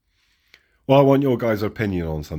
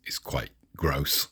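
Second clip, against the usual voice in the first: whispering; 2 semitones lower, 6 dB quieter, slower than usual. Real, not acted. Aside about a gross infection.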